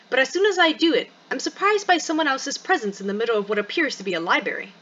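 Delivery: expressive read-aloud of a first-person story; story narration. Acted. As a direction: narrate the story with lively, measured phrasing. Reads game story narration.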